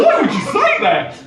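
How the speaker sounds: high-pitched, badly faked Australian accent; hammed-up Australian, pitched well up. Barista questioning a Geordie customer, bad Australian accent. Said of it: "I'm gonna definitely do the accent".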